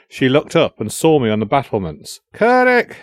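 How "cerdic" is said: high, loud cry for rescue; desperate shout. A narrator's reading. Captive girl calling up to the battlements, terrified shout. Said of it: "she shouted".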